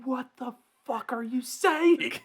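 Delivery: high, slow, drawn-out incredulity; hammed-up high-pitched confusion; baffled disbelief. Baffled reaction to local accent.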